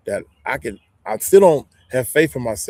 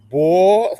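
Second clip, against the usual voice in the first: startled; 7 semitones higher, 8 dB louder than usual. Real, not acted. Startled by something moving outside.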